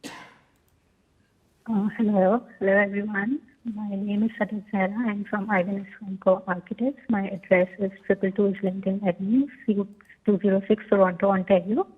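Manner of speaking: speaking through a covered mouth; dull, muffled voice on a call. Real, not acted. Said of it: "you're sounding quite muffled".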